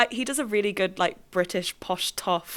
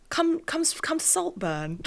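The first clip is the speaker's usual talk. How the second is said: attempted posh British toff; fumbling go at a posh British accent; halting, put-on British upper-class accent; 9 semitones higher than usual. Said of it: "they're, they're very posh".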